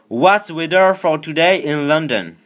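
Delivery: slow, high, loud French-accented English; careful accented English aimed at the assistant; slow, loud English to Siri. Real, not acted. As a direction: spell out every word for the phone. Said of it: "si vous trouvez mon accent ridicule".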